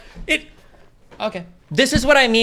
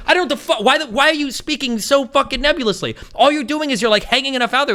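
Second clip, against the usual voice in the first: high-pitched exasperated rant; 6 semitones higher than usual. Real, not acted. Debater berating her nebulous speaking, exasperated. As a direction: berate them for being vague.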